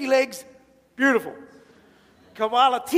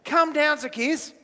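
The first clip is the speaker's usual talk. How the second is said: happy invitation; 3 semitones higher than usual. Acted. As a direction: call down to a friend with a smile. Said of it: "big happy face".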